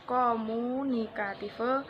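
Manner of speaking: komunikative said slowly as English; English pronunciation. Shown as a demonstration. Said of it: "Ive dalam bahasa Inggris". (komunikative dengan lafal Inggris, pelan)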